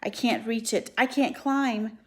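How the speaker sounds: high, loud, rising desperation; urgent pleading. Acted.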